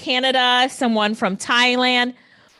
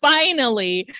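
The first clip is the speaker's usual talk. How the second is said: laughing finally; 3 semitones higher, 5 dB louder than usual. Real, not acted. Relieved after the Jamaican clip.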